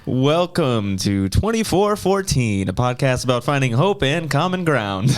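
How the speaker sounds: radio voice. Acted. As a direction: announce it like a radio host. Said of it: "he's been practicing a radio voice".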